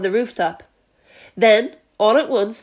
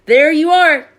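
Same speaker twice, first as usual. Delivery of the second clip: loud, higher told-you-so; police chief proving his point; triumphant call; 6 semitones higher, 8 dB louder than usual. A narrator's reading. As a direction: call it out smugly. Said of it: "called the chief of police".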